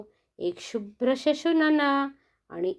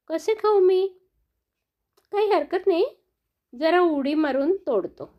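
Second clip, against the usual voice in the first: fox puzzled then determined; 6 semitones higher than usual. Acted. Fox sees grapes high up.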